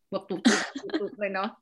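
slow, halting robot imitation; jerky robot voice. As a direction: chop the words like a machine. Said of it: "หุ่นยนต์".

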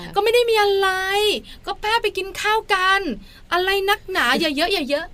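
high-pitched, exasperated mock brush-off; grumbling husband. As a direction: imitate a spouse grumbling defensively. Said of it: "หันมาบ่นเราด้วย".

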